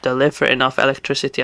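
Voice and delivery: tripping over the words; stumbling over words, distracted by gaming; stuttering. Real, not acted. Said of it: "I'm stuttering like crazy".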